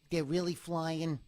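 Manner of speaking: playful put-on voice, lifting at the end; lightly hammed-up silly voice. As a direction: do a bit of a silly voice. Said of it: "you're into voices tonight".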